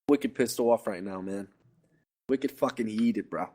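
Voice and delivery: put-on a playful, lightly done Boston accent. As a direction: lay on a hint of a Boston accent, tough-guy style. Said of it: "You sound like Boston".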